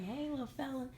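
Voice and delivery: high-pitched cooing hello, retold; imitated baby greeting. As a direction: imitate a man fussing over a baby. Imitates man greeting the doll baby.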